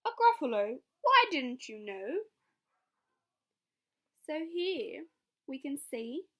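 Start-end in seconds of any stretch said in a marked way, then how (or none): 0.1-2.2 teasing mouse. Acted. Mouse teases owl.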